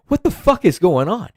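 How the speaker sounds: like you can't believe what you're seeing; exasperated disbelief. Real, not acted. Ranting to viewers about Germany, high exasperated disbelief.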